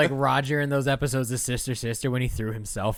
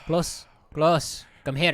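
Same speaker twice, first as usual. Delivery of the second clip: put-on a light Filipino accent, mom giving orders; imitating her Filipino mom at home, light accent; 3 semitones higher, slower than usual. Filipino accent, bossy mom. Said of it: "No, Mom".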